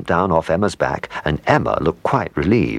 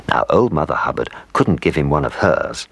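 ordinary delivery

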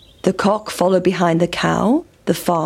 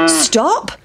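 mild storybook shout, pitched up; higher, rising halt; 4 semitones higher than usual. Acted. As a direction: call out as a cow, without much volume. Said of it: "shouted the cow".

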